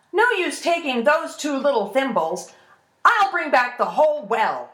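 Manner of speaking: high, loud, dismissive bluff; scoffing boast. Acted. Ash lad bluffs about the tiny buckets, scoffing boast.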